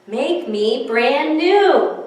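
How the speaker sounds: slow plea; a hint of a pleading snowman; voice from the hot tub. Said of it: "A voice from the hot tub said".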